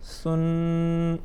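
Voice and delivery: سن with a gentle th for s; soft lisped start to سن, long n; soft tha. Shown as a demonstration. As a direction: chant سن on one note, no whistle. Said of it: "نرمی کے ساتھ".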